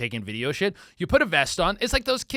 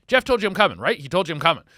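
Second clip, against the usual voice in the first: pushier retold question; 2 semitones higher, 5 dB louder, faster than usual. Driver pressing the parking attendant, louder and insistent. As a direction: press it harder the second time round. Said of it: "he's like".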